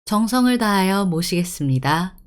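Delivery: formal Korean store announcement; smooth, measured announcer delivery; polite announcement. Shown as a demonstration. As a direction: welcome the customers over the tannoy. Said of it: "has to be all polite because it's announcement".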